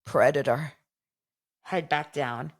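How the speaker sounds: low, abrupt imitation of a drunk accusation; drunken outburst. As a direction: imitate a woozy drinker blurting it out. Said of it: "Hot Mess Express".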